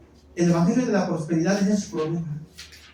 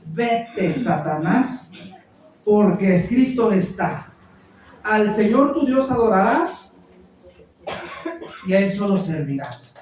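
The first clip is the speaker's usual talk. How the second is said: Jesus rebuking Satan; slower than usual. Retold or imitated. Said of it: "entonces Jesús le dijo".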